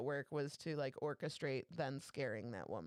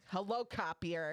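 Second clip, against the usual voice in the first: irritated; 3 dB louder, slower than usual. Retold or imitated. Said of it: "getting angrier and angrier".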